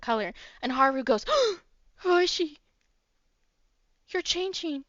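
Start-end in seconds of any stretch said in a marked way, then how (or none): 1.6-4.8 high, alarmed gasp of a line; startled. Acted. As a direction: Haru startled by Hoshi's changing hair, high and alarmed. Haru gasps at friend changing.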